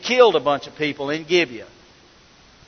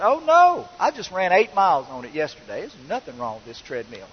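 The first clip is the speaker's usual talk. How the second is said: seller's voice. Retold or imitated.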